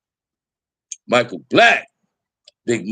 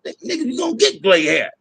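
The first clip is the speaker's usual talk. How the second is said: higher, offhand voice for his friend; imitating a rapper; 11 semitones higher than usual. Quoting his friend's reply about gray hair, lightly voiced mock tone. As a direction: toss it off the way his buddy would. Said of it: "He said".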